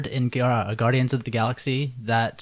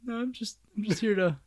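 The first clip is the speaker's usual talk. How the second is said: high, awkward service voice; drive thru worker; 11 semitones higher, 5 dB louder than usual. Acted. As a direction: play a flustered fast-food clerk.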